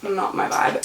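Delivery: breathy whispered aside. Real, not acted. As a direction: drop to a whisper. Spider aftermath aside.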